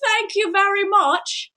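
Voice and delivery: high, bashful thank you; a hint of a flattered villain; mock bashful Death Eater. Voicing other Death Eater.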